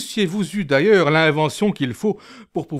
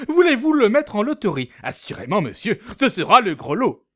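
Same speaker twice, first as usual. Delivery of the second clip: fast, businesslike patter; practical; 4 semitones higher, faster than usual. Acted. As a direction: sell it like a salesman.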